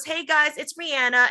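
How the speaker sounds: the name with the A of "man", Ree-ANN-a; her own pronunciation. Retold or imitated. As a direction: rhyme the name with "Anna". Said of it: "she goes".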